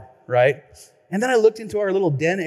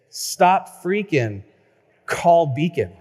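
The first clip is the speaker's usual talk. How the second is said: Marshawn Lynch voice; slower than usual. Retold or imitated. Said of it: "in the way he says it".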